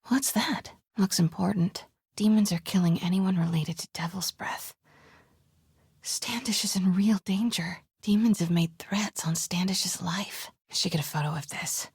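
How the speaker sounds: whispered sneaking thoughts; stealth whisper. Acted. Sneaking into the compound, whispering plans to herself. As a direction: keep it under your breath while sneaking.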